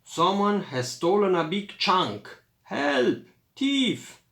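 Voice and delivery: high, loud alarm call; crying thief. A narrator's reading. Ziki calling for help against a thief, loud cry.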